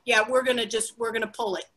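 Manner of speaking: laughing mock rant, loud at the end. Comic mocking the president through laughter.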